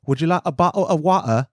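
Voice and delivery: lightly put-on English accent on "water"; a polite English offer, "water" without the r; a hint of a polite English host; English accent impression. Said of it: "my best impression".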